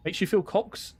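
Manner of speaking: questioning repeat, rising at the end; baffled, reading the chat message back; puzzled echo. Shown as a demonstration. Streamer puzzled by a chat message, repeats it questioningly. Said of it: "I don't know what that means".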